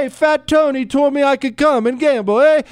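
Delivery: put-on loud, high-pitched mobster Italian accent; hammed-up Italian accent, eager to get in. Host playing a gambler giving Bruno the code, Italian accent. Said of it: "That was a good Italian accent".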